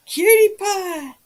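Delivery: squealed high and loud, drawn out; delighted high squeal of a pet name; excited call-out. Real, not acted. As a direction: greet them like a long-lost friend. Greeting a viewer, excited call-out.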